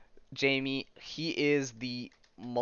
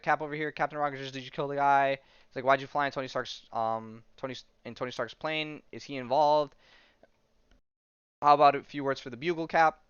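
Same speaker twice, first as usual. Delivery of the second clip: shouting reporter; 3 semitones higher than usual. Retold or imitated. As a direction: call out over a crowd.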